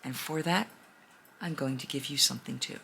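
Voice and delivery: low, hushed dragon voice; a big gentle dragon speaking low; lightly voiced low dragon. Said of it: "And the dragon says".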